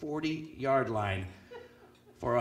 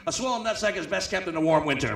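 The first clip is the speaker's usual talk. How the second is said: fake wisdom; 3 semitones higher than usual. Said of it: "I go".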